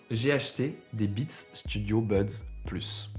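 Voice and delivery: whispered aside, slow. Real, not acted. Aside about buying Beats.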